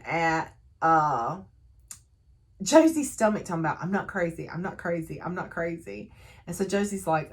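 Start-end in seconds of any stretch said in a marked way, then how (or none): 3.8-6.1 quieter, rapid-fire repeated self-reassurance; retold muttering to self. Cora talking to Josie's stomach, muttered. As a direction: mutter it softly like a mantra.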